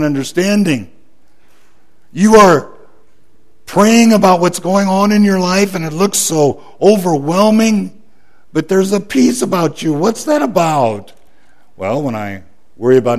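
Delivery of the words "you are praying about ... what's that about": rising preaching. Acted. Pastor urging the congregation, fervent and raised. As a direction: lift them up with it.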